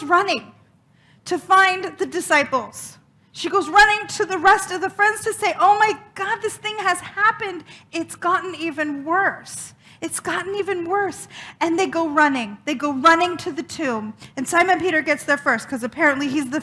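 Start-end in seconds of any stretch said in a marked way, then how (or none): 5.6-11.3 alarmed. Acted. Mary runs to tell the disciples.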